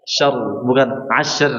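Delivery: "syr" slow with the voice climbing up; demonstrating the rising error; wrong rising ra. Shown as a demonstration. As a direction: show the mistaken upward pitch on "syr". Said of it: "suara meninggi ke atas".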